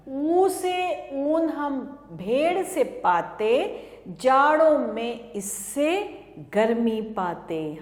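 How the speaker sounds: sing-song classroom chant; rhyme recitation. Acted. Teacher chanting a rhyme to small children, sing-song. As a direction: recite it in a bouncing rhythm for kids.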